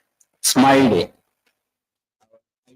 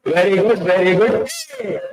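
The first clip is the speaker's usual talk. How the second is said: put-on childlike cheer; 6 semitones higher than usual. Shown as a demonstration. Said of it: "what kids will do".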